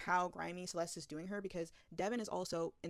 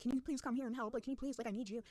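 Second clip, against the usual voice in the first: higher-pitched imitation of begging; half-hearted tearful plea, pitched up; mock hysterical pleading; 5 semitones higher than usual. Outed brother phones his sister for help, mock pleading. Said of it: "He's literally hysterical crying".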